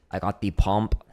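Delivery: hammed-up Austrian accent; bad Arnold impersonation. Drummer with warm forearms joking, bad Austrian accent. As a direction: do a badly faked Austrian accent. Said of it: "That is a horrible Arnold impersonation".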